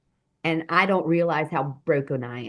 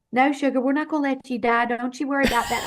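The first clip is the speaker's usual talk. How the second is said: imitated soothing; 7 semitones higher, faster than usual. Retells woman soothing the hurt narrator.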